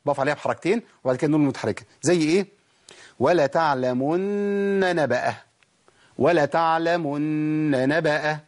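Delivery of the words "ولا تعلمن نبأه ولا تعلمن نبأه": ولتعلمن نبأه recited slowly, long hum on the doubled نّ, then a separate نَ; three nūns made clear. Shown as a demonstration. Teacher showing the rule, slow recitation with all nūns distinct. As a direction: hold the نّ of تعلمن, then sound نبأه clearly. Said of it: "لازم ابين ثلاث نونات".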